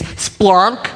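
"splunk" stretched out on a rising tune; demonstrated pronunciation. Shown as a demonstration. Preacher leading the congregation, "splunk" drawn out. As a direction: hold out "splunk" for them to copy. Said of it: "You're gonna try it again".

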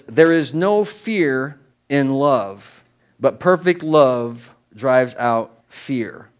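slow, solemn reading; scripture reading. Real, not acted. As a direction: read the verse slowly and deliberately.

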